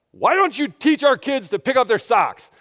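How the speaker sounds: slow, high, accusing yell; acted-out shout at his wife; retold yelling. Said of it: "I yell at my wife".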